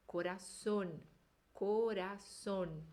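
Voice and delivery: corazón, slow, with a closed O; Spanish with a closed O. Shown as a demonstration. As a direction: say corazón slowly and keep the O closed. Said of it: "Sempre com O fechado". (corazón devagar, com O fechado)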